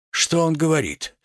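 quick first take of a stunned question; indignant question. Acted. Tragedian asks bystander, first take.

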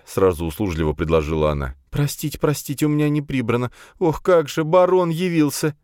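high, fluttery nervous mother; flustered nervous woman. Acted. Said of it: "Она сильно разнервничалась".

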